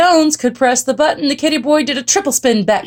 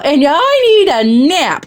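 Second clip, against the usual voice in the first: higher, louder weary moan; moaning mama; 7 semitones higher, 5 dB louder than usual. A narrator's reading. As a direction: moan it as a worn-out mother. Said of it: "moaned Mama".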